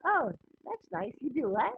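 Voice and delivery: glazed, polite bafflement. Acted. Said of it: "see the little gloss in their eyes".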